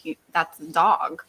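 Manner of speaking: imitating a matter-of-fact translator; low, unhurried, factual delivery. Translator telling the Marines what the meat was, matter-of-fact. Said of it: "very much matter of fact".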